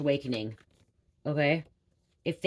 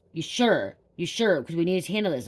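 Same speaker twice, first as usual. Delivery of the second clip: louder, pressing cop; mock insistent policeman, louder; doubting police; 3 semitones higher, 5 dB louder than usual. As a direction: push her like a doubtful officer. Police doubting her story.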